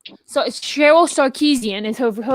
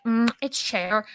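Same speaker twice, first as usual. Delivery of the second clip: imagined singer correcting; 7 dB quieter, slower than usual. Retold or imitated. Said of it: "she'll be like".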